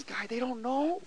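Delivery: high, loud urgent declaration; the Lord's answer, urgent. Retold or imitated. Preacher voicing the Lord's answer about the bikers, loud. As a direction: proclaim it with rising force. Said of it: "He says".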